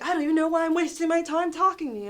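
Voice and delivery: fast, high, loud retold rant; quick mock-angry dismissal; mimicked real anger. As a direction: imitate a fed-up customer storming at the dealer. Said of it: "he got really mad".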